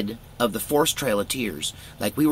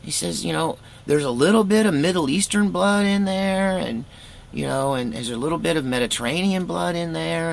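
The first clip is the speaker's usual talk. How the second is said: high, chatty uncle explaining results; uncle's voice; 7 semitones higher than usual. Retold or imitated. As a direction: play the uncle, higher and matter-of-fact. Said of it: "he's like".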